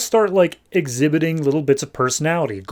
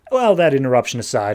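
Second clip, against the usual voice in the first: brisk recorder voice; quick dictation into a recorder; dictating aside; faster than usual. Retold or imitated. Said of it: "talking into his little tape recorder".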